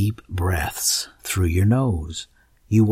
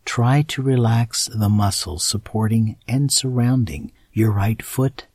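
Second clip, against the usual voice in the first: guided meditation. Acted. Guided muscle relaxation.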